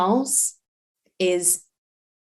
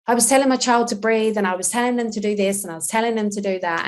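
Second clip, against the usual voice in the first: flustered parent; 3 semitones higher, faster than usual. Retold or imitated. Parent defending how they handled their child, hurried and flustered. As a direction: rattle it off like a harried parent. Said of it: "is they say".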